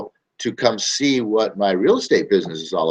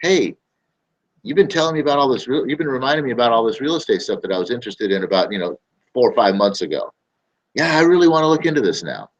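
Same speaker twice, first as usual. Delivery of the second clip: returning lead; 4 semitones higher, faster than usual. Retold or imitated. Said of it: "and says".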